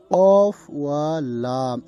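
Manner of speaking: slow, deliberate Arabic letter names; careful letter-by-letter spelling. Shown as a demonstration. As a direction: sound out each root letter slowly. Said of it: "এই মাদ্দা হতে".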